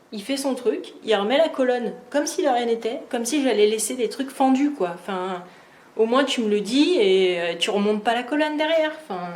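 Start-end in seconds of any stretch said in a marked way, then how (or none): 0.1-4.7 higher-pitched, indignant complaint; real exasperation at someone's nerve; annoyed. Real, not acted. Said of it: "je suis énervée parce que". 6.0-8.9 indignant reproach, pitch lifted; real irritated complaint; annoyed. Real, not acted. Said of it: "je suis énervée parce que".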